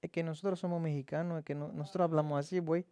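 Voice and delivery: playful nasal Mexican Spanish impression; lightly put-on Mexican accent, talking through the nose; mock Mexican accent. Teacher shows students his Mexican accent, nasal and playful. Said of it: "Les Mexicains, ils parlent du nez".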